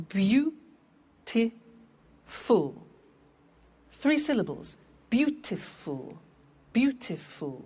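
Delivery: Beautiful split into three clear beats; syllables spelled out. Shown as a demonstration. Teacher models syllables of Beautiful for students. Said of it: "how many syllables are there".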